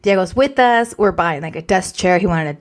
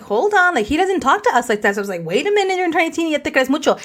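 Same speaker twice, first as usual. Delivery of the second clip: scolding mom; 6 semitones higher than usual. Retold or imitated. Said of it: "I'm like".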